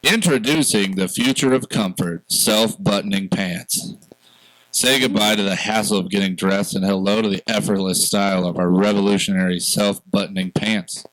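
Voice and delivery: smooth, scripted ad read; commercial voice. Acted. Host reading podcast sponsor's ad for self-buttoning pants, commercial voice. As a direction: pitch the product like a commercial announcer. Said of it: "put on your commercial voice".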